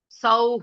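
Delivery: सौ ending in a breathed h; with visarga. Shown as a demonstration. Teacher correcting the seed syllable, सौ with final visarga h. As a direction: say सौ with an audible h after the vowel. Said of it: "विसर्ग रहना चाहिए".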